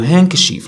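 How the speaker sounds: هانكشيف as "hank-sheef"; silent D. Shown as a demonstration. Teacher confirming the British word, silent D. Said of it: "نقولوا هانكشيف".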